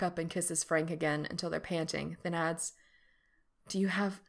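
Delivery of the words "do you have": whisper. Acted. Hesitant whispered question.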